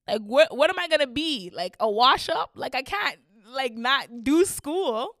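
rising panic. Retold or imitated. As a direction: spiral into panic about the future. Panicking about failing school.

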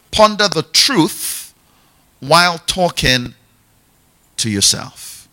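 "Ponder the truth" slow with weight on "Ponder"; slow emphatic teaching. Shown as a demonstration. Teaching the corrected definition, slow and stressed. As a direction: spell it out deliberately. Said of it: "more accurately".

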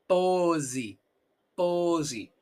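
"Pose" as PO-zi, drawn out, falling. Shown as a demonstration. Teacher modelling Portuguese "Pose", S as Z. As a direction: say "Pose" with buzzing Z and final I. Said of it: "¿Has notado la S?".

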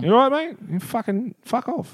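hammed-up pub aggro, pitched high; mock aggression. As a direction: sound ready for a fight.

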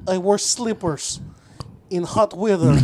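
slow mock Russian-Filipino accent. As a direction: put on a heavy, halting Russian Filipino accent. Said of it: "What are you, Russian Filipino?".

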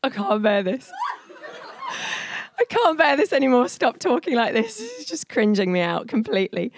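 retelling her own fed-up plea; mock desperate, stop-this-now; exasperated outburst.

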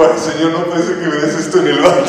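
retold crying plea breaking into laughter; mock tearful plea. Preacher retells crying to God in the bathroom, amused. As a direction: plead to God, amused at yourself. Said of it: "llorando, así como".

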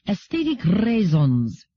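put-on slow Solarian accent with a long rolled R in "raisons". A narrator's reading. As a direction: roll the R of "raisons" interminably, Solarian style. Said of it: "hear me with my Solarian accent".

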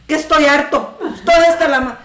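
laughing while quoting the quarrel; laughing retelling. Retold or imitated. Vendor laughing while retelling the quarrel. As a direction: giggle through the retold argument.

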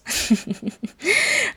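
real high-pitched giggle; laugh. Real, not acted. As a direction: burst into an embarrassed laugh. Laughs at own weird accent.

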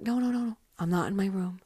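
high, giddy reply to dad; gloating that she got out; gleeful teen. Retold or imitated. Teen telling dad on the phone she escaped, high and giddy.

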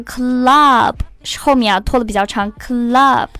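"club" held long; drawn-out word. Shown as a demonstration. Teacher shows how the singer holds it, drawn-out "club". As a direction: stretch the vowel of "club".

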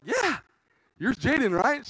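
high, sugary reassurance; fake friendly. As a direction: sweet-talk her innocently.

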